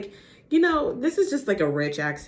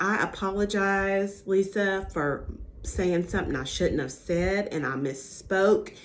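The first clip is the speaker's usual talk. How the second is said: put-on Sutton's accent. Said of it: "I can't talk about these people if they have accents without trying to do 'em".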